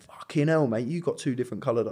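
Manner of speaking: put-on Kai's line in a light Manchester accent; a quick, shocked Manchester "fucking hell, mate"; mock Manchester accent. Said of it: "that wasn't his, his accent at all".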